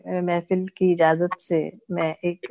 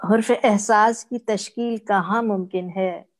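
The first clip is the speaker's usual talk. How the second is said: mushaira-style poetry reading; ghazal recitation. Acted. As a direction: recite each half-line deliberately, pausing before the refrain.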